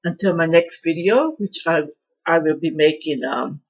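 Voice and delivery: talking through a mouthful of biscuit; mouth full. Real, not acted. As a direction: speak around a hot bite of food. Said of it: "I'm trying to talk with my mouth full".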